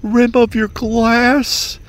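high, sugary server voice offering extras; high, sweet waitstaff voice; chirpy waiter. Retold or imitated. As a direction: play an overeager restaurant server. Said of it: "They're like".

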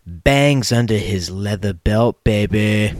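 smooth radio host intro; grand entrance announcement. Acted. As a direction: announce yourself like a lounge DJ.

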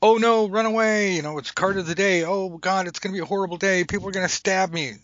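high, loud hammed-up panic; over-the-top mock dread. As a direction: squeal like a reader terrified by one card. Mocking a panicked card reader.

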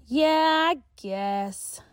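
a hint of a schoolgirl asking her friend; Tia, girl voice. A narrator's reading. Tia teasing.

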